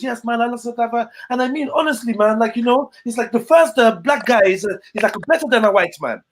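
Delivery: a hint of the guy gushing praise; imitating the guy. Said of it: "he was like".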